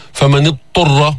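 فمن اضطر with the ض merged into the ط; don't let the ض slip into the ط in اضطر; assimilating mistake; wrong assimilated reading. Shown as a demonstration. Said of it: "ما بتقول".

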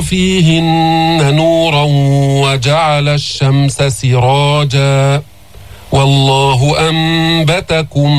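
slow, drawn-out tajweed recitation; Quran recitation. Shown as a demonstration. Teacher recites the verse for his students, slow melodic tajweed. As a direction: chant each verse slowly and melodiously.

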